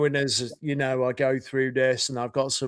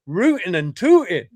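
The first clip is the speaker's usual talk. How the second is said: higher-pitched, hammed-up attempt at American; bad American accent; 4 semitones higher, 4 dB louder than usual. Shown as a demonstration. Brit put on the spot to sound American, bad American accent. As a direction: do a botched cowboy American accent. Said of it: "Don't ask me to do my American accent".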